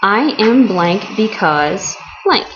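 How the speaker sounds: slow and clear, each word set apart for the class; slow formula demo. Shown as a demonstration. Teacher to students, slowly laying out the formula. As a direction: spell the pattern out word by word. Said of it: "break it down into a nice little formula".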